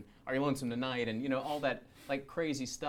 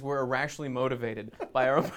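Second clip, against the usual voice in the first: mock grand imitation; 2 semitones higher, 10 dB louder than usual. Loudly mimicking costar's better answer.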